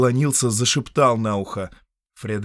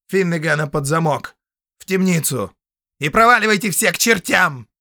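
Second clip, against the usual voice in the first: louder, higher curt commands; gruff orders; 8 semitones higher, 6 dB louder than usual. Acted. Count ordering the prisoner jailed, gruff. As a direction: bark out orders.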